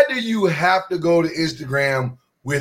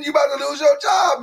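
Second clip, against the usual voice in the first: ranting call-out; 6 semitones higher than usual. Real, not acted. Ranting to all posters.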